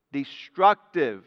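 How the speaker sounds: Destructive said slowly with a falling tone; stress on Destructive. Real, not acted. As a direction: draw out Destructive. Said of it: "what kind of heresies?".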